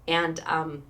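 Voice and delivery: halting, with a touch of real emotion; surprised by welling emotion; getting emotional. Real, not acted. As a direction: pause to hold back the feeling. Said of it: "I'm getting so emotional".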